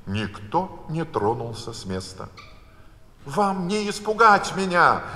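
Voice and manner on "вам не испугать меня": Alice raising her voice, higher and louder; Alice standing up to the Queen; defiant exclamation. A narrator's reading. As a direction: bold defiant cry. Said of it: "воскликнула Алиса".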